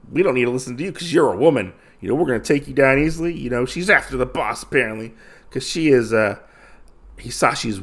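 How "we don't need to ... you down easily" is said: dismissive thugs. Retold or imitated. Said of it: "They're like".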